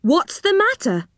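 high-pitched questioning, falling at the end; puzzled demand. Acted. Joe impatiently questions stammering Moonface.

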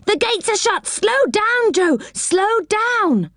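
high-pitched alarmed warning; urgent cry. A narrator's reading. Rick sees shut gates and warns Joe, crying out. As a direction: cry it out high, urging him to act. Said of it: "he cried".

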